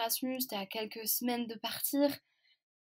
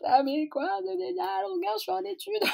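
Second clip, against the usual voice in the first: much higher, louder indignant shout; protesting; 10 semitones higher, 4 dB louder than usual. Retold or imitated. Granddaughter protesting to her grandmother, much higher and shouting. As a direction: shout back in disbelief.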